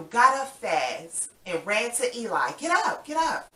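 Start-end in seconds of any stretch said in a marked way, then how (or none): 2.5-3.5 excited urging. Acted. Urging children to jump up.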